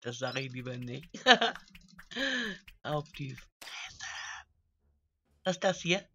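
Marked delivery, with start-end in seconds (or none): 2.8-4.1 low, slow, soft mutter; sheepish aside. Real, not acted. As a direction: slip the rude bit out under your breath. Finishes the rude phrase after chuckling.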